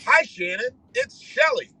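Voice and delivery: high, put-on white-lady phone greeting; Shelly. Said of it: "this is just me imitating Shelly's voice".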